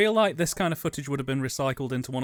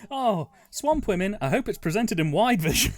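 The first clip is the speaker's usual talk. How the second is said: excited film fan; 5 semitones higher than usual. Retold or imitated. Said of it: "Just love the idea of".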